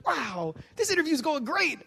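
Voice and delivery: high, slow mock cheer; deadpan sarcasm; sarcastic. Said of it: "I'm like".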